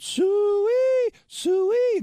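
long high piercing hog call. Retold or imitated. Guys in the corner call the hogs, long and high. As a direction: wail it like calling pigs home. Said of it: "pig call".

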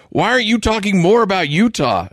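high mock fan whine; mocking whiny fans. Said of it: "where they're like".

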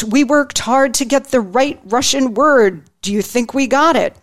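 lightly voiced Hillary, eager to please; eager question. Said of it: "Hillary asked eagerly".

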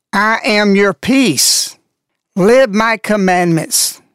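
slow, weighty and commanding; voice of authority. Retold or imitated. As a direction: pronounce each word like a solemn decree. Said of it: "in a voice of authority".

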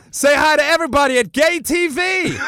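high, loud camp Austrian announcement; gay Austrian character. Retold or imitated. Bruno springing the reveal on the wrestler, high camp. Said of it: "the gay character".

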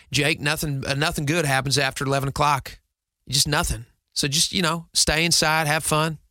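put-on dad's advice in a light Southern accent; mild mock-Southern dad. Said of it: "He still has the accent".

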